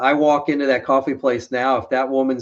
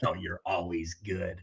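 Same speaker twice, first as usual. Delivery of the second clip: mock wife; 7 semitones lower, 12 dB quieter than usual. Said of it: "Drives my wife crazy".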